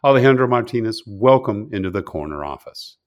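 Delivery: crisp announcer read of a guest bio; host reading a scripted guest welcome; guest introduction read. Acted. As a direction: present the guest with polish and energy. Reads guest bio over music.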